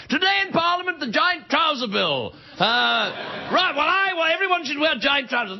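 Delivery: hammed-up posh British debate; posh British accent. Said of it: "posh snobby guys in Britain".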